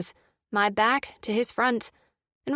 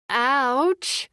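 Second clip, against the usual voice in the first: pained ouch; 3 semitones higher, 3 dB louder than usual. A narrator's reading. Baby pulls her hair.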